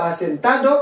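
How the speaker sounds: asentado with the last D sounded, "a-sen-TA-do"; "asentado" ending in a clear "-ado"; full D. Shown as a demonstration. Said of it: "ou qu'à prononcer ou qu'à pas".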